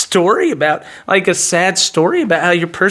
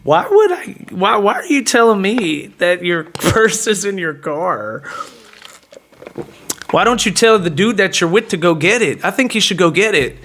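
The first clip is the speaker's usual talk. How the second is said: blunt, incredulous pushback. Retold or imitated. Man turning down woman's purse request, blunt. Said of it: "I really was that blunt about it".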